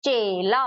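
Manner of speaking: "चेला" with a held ay in the first syllable; weight on ए. Shown as a demonstration. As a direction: lean on the ay of "चेला". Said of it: "इस तरीके से हम पढ़ सकते".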